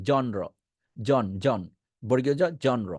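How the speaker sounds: জনর begun with a hard j as in "John"; genre with hard j. Shown as a demonstration. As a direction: say জনর as "jon-ro". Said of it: "না পারলে জ বলেন". (বর্গীয় জ দিয়ে জনর)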